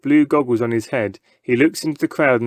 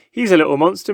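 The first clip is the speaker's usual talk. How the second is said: father; 6 semitones higher, 3 dB louder, faster than usual. A narrator's reading. Father speaks.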